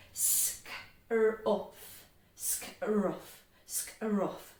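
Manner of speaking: Sk, r, uff drawing closer with each go; gradual blending. Shown as a demonstration. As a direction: sound out Sk, r, uff and slowly join them up. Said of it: "Let's blend them together".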